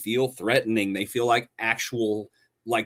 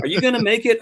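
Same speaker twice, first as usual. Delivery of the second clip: mocking repeat; 9 semitones higher, 4 dB louder, faster than usual. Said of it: "repeating the teasing text".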